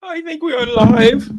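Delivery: high, loud, drawn-out singsong; confident announcement. Real, not acted. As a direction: announce it slowly in a ringing high voice. Confirms the stream is live.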